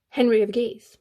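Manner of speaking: Henry of Guise in a hammed-up French accent; bad French accent. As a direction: say "Guise" like a mock Frenchman, hard K. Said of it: "that's a terrible French accent".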